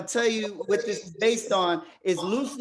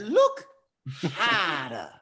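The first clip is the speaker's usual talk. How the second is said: a bigger second go at Rafiki; much slower than usual. Retold or imitated. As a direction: push the old sage voice further, up then down. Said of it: "Did I do that well".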